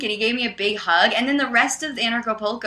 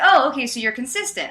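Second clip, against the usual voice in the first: higher-pitched, mildly taken aback; imitated surprise; 5 semitones higher, 3 dB louder than usual. Debate opponent realizes she is consistent, imitated surprise. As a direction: mimic someone pleasantly caught off guard. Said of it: "he was surprised".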